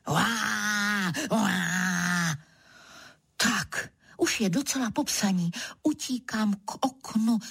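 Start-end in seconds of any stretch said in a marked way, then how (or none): 0.1-2.4 opakovaný zvířecí řev; zařvi dvakrát jako šelma; řev levharta. Acted. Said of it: "kdo si pod oknem řve". (levhartí řev)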